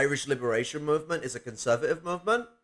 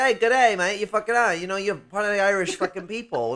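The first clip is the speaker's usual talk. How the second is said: mock Scottish accent; 4 semitones higher than usual. Bystander greeting a black Irishman, in a hammed-up Scottish accent. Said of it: "I don't know why I'm going Scottish".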